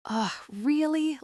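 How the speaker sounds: slow, whiny high complaint; a young witch's high, slow groan of protest; complaining. Acted. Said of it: "Lark complained".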